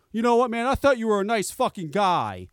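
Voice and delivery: mildly aggrieved mock outburst; imitated indignation. Mechanic stops pretending to be someone else, mildly indignant. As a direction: imitate a mechanic dropping the act, put out. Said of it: "Then he loses character".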